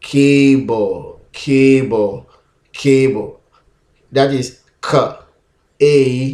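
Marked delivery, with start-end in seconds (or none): 0.0-3.4 cable said slowly, falling; word demo. Shown as a demonstration. Teacher drilling cable for learners. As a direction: model cable for the class. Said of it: "So we're gonna have".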